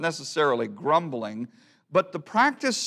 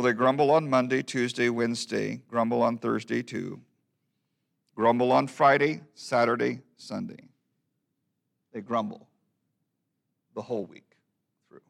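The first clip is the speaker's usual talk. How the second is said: subdued verse recitation. Acted. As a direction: wind down with long pauses between the last phrases. Subdued closing repeat of the verse.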